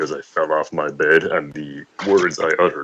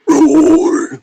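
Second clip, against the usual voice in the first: mock roar; 8 dB louder than usual. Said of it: "with a German accent".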